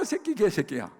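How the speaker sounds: loud, high-pitched mock cursing; retold angry cursing. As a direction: spit out the insults as an irate parent. Retells drunk mother cursing pastor.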